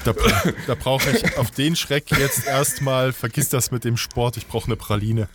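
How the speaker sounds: talking through a mouthful; words round a praline; wolfing down food. Real, not acted. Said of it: "Und ich kau erstmal".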